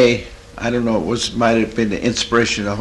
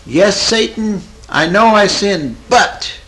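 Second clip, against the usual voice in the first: high, louder mock yell at Satan; retold scream; 9 semitones higher, 5 dB louder, slower than usual. Woman alone in wheat fields defying Satan, retold scream. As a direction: imitate crying out against the devil. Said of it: "scream it to the top of her voice".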